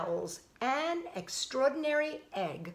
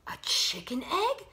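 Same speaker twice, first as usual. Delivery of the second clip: puzzled whisper; 5 semitones higher than usual. Acted.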